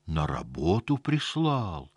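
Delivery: slow, puzzled question; surprised. Acted. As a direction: ask back in disbelief. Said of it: "удивлённо переспросил дядя Костя".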